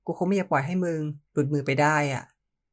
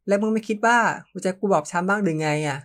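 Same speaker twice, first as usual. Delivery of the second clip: trembling voice; 4 semitones higher, 3 dB louder than usual. Acted. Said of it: "ผมพูดด้วยเสียงสั่นเครือ".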